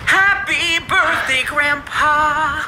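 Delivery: excited. Real, not acted. Surprise birthday reveal, calling out.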